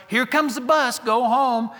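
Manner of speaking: woman hurrying her poodle as the bus comes; urgent command. Retold or imitated. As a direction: push the dog to leave now. Bus arriving, woman urges dog.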